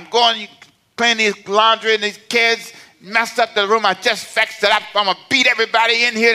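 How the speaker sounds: mildly acted fed-up mama rant; mock exasperated parent at the end of their rope; mad, tired. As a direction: rattle off the complaints, speeding up to the threat. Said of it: "'Cause you're mad, you're tired".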